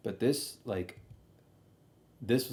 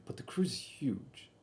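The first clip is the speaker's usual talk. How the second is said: whispering; 2 semitones higher, 7 dB quieter, slower than usual. Real, not acted. Aside, hushed remark.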